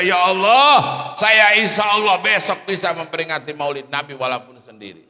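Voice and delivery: a grandmother's tearful, happy prayer; old woman weeping for joy as she prays; crying with joy. Retold or imitated. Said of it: "nangis-nangis gembira".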